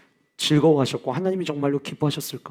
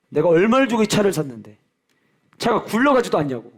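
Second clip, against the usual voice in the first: mock angry car owner; 4 semitones higher, 3 dB louder than usual. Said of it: "이 차를 산 사람이 막 화를 내요".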